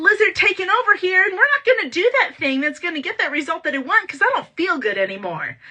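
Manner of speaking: a hammed-up grumpy reptile taking over; angry lizard brain. Coach voicing the angry lizard brain, mock angry. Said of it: "your lizard comes back in and says".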